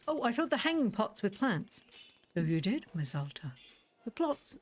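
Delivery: lightly voiced formal shopkeeper; a hint of an overly polite old shopkeeper; Borrow. Streamer reading the shopkeeper's lines to the player, lightly voiced.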